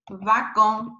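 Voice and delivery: "wagon" starting with a V sound; French "wagon", opening like "van". Shown as a demonstration. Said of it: "you pronounce V, like".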